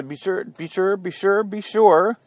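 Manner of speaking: stuttering repeat like a vinyl skip; mock a record stuck in its groove; skipping record. Host mimicking a skipping record for listeners. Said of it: "That was a skip".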